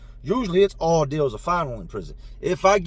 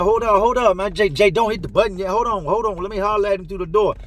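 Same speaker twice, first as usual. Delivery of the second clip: higher-pitched retold plea to wait; imitating an agitated cellmate; urgent stalling; 3 semitones higher, 4 dB louder than usual. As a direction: hurriedly hold them off, mildly panicked. Cellmate pleads to stall the dealer.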